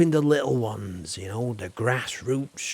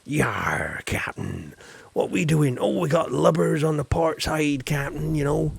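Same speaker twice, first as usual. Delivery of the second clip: lightly voiced pirate deckhand; a hint of a salty sailor; 2 semitones higher than usual. Shown as a demonstration. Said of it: "I'll put my best".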